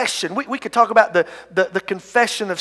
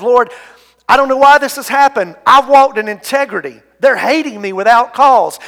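louder, pressing mock protest; raised-voice appeal, preacher acting it out; crying out to God; 3 semitones higher, 5 dB louder than usual. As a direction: act out the psalmist's cry of protest. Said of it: "the psalmist cries out and says".

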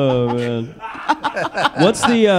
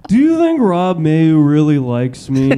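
impression of Alex; 4 dB louder, slower than usual. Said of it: "do your impression of me".

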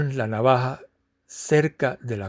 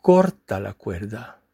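calm voice of God. Acted. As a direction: speak as God, calm and patient, letting each word land. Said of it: "con calma".

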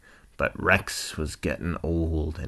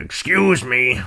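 lightly voiced old rhino, higher and louder; Rex; 7 semitones higher, 7 dB louder than usual. Old rhino asking a stranger for help, lightly voiced character. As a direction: call out a little as an old rhinoceros. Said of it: "grumpy old cantankerous rhinoceros".

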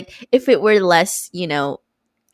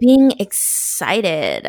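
slow stretched excited; drawn out; much slower than usual. Real, not acted. Podcast host mocking her own segue, stretched slowly. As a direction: drag out the word excited. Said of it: "I said it like that".

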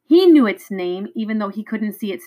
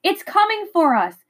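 frightened cry; 10 semitones higher than usual. A narrator's reading. Fleeing beast, shouting to friend.

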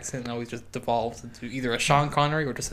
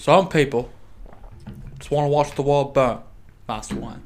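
louder attempt at a British accent; Michael Caine; 3 dB louder than usual. Retrying the quote out loud, louder British accent. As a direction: call it out in a British butler voice. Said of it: "I can't do the accent unless I do it quietly".

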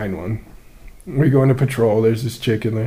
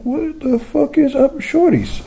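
high, slow hammed-up holler; mock flirty hello; bro greeting; 12 semitones higher, slower than usual.

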